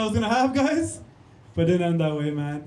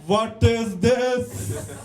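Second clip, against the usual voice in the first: put-on slow, stretched Indian accent; hammed-up Indian-accent coaching demo; 3 semitones higher, much slower than usual. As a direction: overdo the Indian accent, dragging each word. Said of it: "why was her accent so good?".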